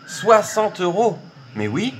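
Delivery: high, slow amazed exclamation; stunned disbelief. Real, not acted. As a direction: savour the unbelievable sum. Disbelief at the win.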